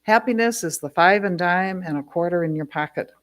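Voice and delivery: measured recital, each phrase starting strong then settling; poetry reading. Acted. Poet reads a childhood five-and-dime poem to an audience, measured recital. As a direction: read it as verse, lingering on the images.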